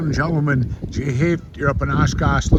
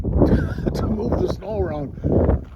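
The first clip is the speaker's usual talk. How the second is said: laughing; 7 semitones higher, much slower than usual. Real, not acted. Chuckles at the crawler loader.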